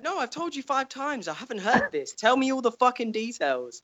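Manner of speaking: high mock whiny voice; mocking Bran. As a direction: whine high like a clueless kid. Mocking Bran's reply.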